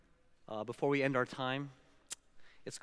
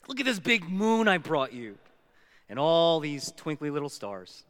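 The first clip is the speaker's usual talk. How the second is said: louder storybook wonder; showing off proudly; 6 dB louder than usual. Acted. Big Bear showing Little Bear the night sky, delighted. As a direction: present it like a grand gift.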